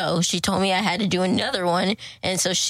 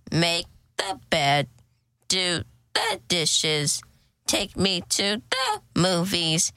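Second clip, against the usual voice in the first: slow, low menacing robot voice; 4 semitones lower than usual. Pretend. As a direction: play a bossy robot giving orders. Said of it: "I'm gonna do the funny one".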